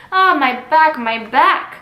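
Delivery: mock groan of pain; groaning nurse. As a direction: moan about the aching back. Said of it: "Lord, how my head aches".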